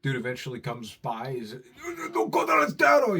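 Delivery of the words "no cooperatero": high, slow wailing shriek; crying old man shout. Retold or imitated. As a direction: wail it like a desperate old man. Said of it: "he run around like that".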